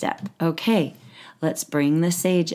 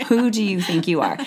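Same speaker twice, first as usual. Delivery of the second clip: a hint of a scornful judge; lightly mock the inner judge's scorn; harsh judge. Coach voicing the inner judge to her client, scornful. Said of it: "how harsh the judge is".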